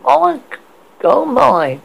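high, breathy gasp of surprise. Acted. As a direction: gasp it out, startled. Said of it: "gasped a big approaching service woman".

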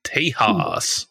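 whispered Spanish Tejas. Pretend. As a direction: breathe Tejas as a hushed aside. Joking Spanish name for Texas.

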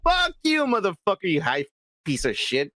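exasperated fan rant; pissed off. Real, not acted. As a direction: curse him out, pitch tumbling down. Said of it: "this is pissing me off".

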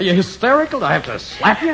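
startled and snapping at her; alarmed shout. Acted. Husband confronts sobbing wife.

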